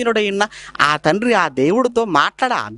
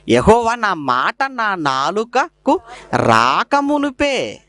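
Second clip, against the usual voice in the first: slow scripture reading; 3 semitones higher, much slower than usual. Acted. Preacher reading the psalm to the congregation, slow and deliberate. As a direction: read the verse slowly and deliberately. Reads psalm verse slowly.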